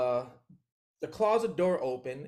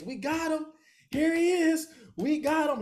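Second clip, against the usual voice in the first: gloating detective; 13 semitones higher than usual. Retold or imitated. Detective holding the picture to his face, gloating. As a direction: crow over the prize.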